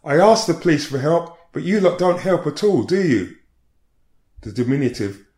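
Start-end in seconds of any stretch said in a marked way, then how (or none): 0.0-3.3 angry accusing. Retold or imitated. Distressed woman berating police.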